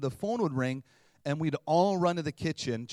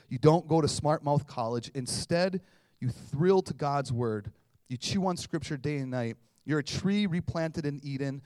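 louder, emphatic Bible reading; proclaiming the psalm; scripture reading; 4 dB louder than usual. Acted. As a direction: read the psalm to the congregation. Reads Psalm one aloud.

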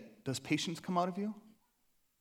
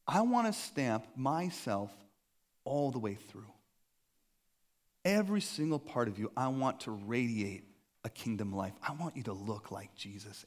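tender invitation; 4 semitones lower than usual. Retold or imitated. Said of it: "he's saying".

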